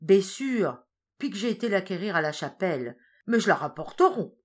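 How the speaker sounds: put-on old woman explaining herself to the farmer; flustered old woman. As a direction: justify yourself quickly. She excuses herself.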